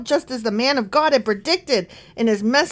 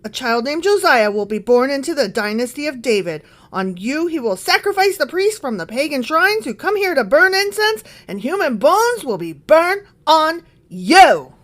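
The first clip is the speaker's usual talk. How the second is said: declaimed prophecy, building louder and higher; shouted proclamation; 3 semitones higher, 4 dB louder than usual. Acted. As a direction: proclaim it like a prophet, swelling toward the end. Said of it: "he shouted".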